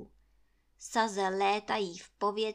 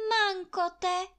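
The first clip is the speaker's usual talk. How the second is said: high alarmed exclamation; Anče crying out as the logs rise; frightened cry; 9 semitones higher, 5 dB louder than usual. Acted. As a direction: yelp in alarm. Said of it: "vykřikla ještě jednou Anče".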